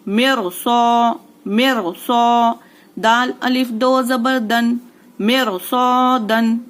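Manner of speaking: slow tajweed demo, "मिर" with heavy R and long "सौ"; heavy R recitation. Shown as a demonstration. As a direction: recite "मिर सौ" slowly, R full. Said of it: "इस तरीके से". ("मिर" की र मोटी, "सौ" खींचकर)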